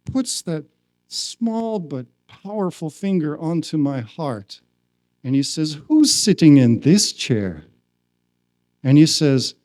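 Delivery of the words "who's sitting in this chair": loud, pointed retold question; serious question. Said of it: "he becomes a more serious".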